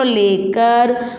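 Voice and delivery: लेकर drawn out very slowly; slow model word. Shown as a demonstration. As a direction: stretch लेकर so children can follow. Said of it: "मैं साथ साथ बोलो बेटा". (लेकर बहुत धीरे)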